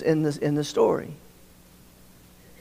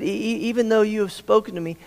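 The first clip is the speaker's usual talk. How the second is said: stuttering Moses; 4 semitones higher, faster than usual. Retold or imitated. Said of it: "He said".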